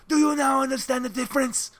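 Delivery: haughty mock Spanish accent, slowing on the boast; imitated snobbish Spaniard's accent; David. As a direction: proclaim it in a put-on Spanish accent. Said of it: "looks me in the eye and goes".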